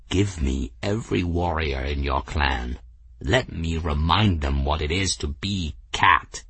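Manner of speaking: low-pitched, measured appeal to a clan chief; rallying cat warrior. Acted.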